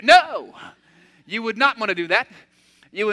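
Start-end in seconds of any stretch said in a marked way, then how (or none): 0.0-0.5 sharp louder no. Real, not acted. Preacher rejecting the bottled-up anger with a loud no. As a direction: cut it off firmly.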